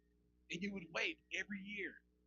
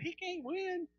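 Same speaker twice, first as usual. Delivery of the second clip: high, ringing victory cry; triumphant exclamation; 11 semitones higher, 3 dB louder, much slower than usual. Retold or imitated. Preacher retelling his cry to his wife, high and triumphant. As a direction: crow it out with glee. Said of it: "I said".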